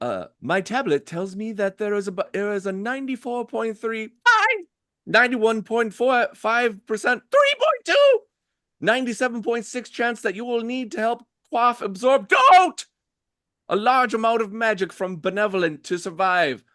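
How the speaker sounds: erratic glitching speech. Voicing a character who reads from a tablet and blips in and out: erratic, glitching voice. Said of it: "erratically saying other things".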